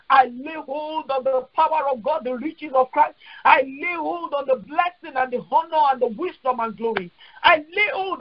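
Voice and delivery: declaring prayer with insistent repetitions; fervent prayer. Acted. Preacher thanking God for the rainbow's mystery, fervent prayer. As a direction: pray it out with rising calls of thanks.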